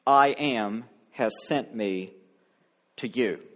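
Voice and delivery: measured, solemn Bible reading; scripture reading. Acted. Preacher reading Exodus aloud to the church, solemn and measured. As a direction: read the Exodus passage to the congregation, solemn reading voice.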